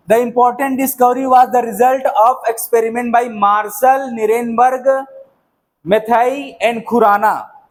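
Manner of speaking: reading a textbook sentence out very slowly; slow dictation. Shown as a demonstration. Teacher dictating a notes line to the class, very slow. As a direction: dictate it word by word so students can write.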